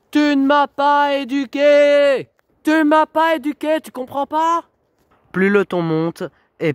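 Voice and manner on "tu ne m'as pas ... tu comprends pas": furious yelling. Real, not acted. Daughter yells at her mother that she never raised her. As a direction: throw it back at her mother.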